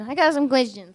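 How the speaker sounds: lightly put-on New York accent. Joining the mob interrogation bit, light New York accent. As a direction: attempt a New York tough guy. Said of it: "trying to do New York accent".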